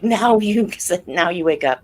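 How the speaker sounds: laughing exasperation. Retold or imitated. Wife to husband who woke too late, laughing. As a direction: tease him through a laugh. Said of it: "And I'm like".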